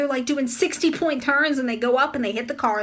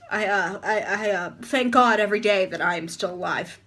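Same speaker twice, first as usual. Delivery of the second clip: low, halting deadpan; deadpan examiner; 4 semitones lower than usual. Retold or imitated. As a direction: imitate a weary examiner, haltingly. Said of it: "he said it just like that".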